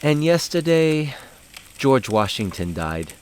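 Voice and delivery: slow, lightly voiced child, high on yesterday; a hint of a little girl reporting big news; solemn little girl. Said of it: "then she would go".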